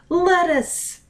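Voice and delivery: a high cry of a friend's name; cried out. A narrator's reading. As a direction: call her name out high and urgent. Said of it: "Pudding cried".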